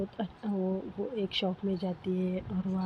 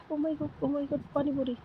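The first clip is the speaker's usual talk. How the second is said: thrilled; 7 semitones higher than usual. A narrator's reading. Girl thrilled at pani puri stall.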